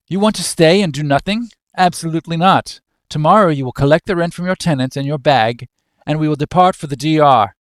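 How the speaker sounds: brisk, lightly voiced domineering father; stern father. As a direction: lay down the law to your son. Father overrules son's timid request.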